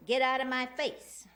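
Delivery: a council speaker imitating the shouting woman; retold shout. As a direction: belt it out as she did, retelling. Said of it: "Then she kept shouting".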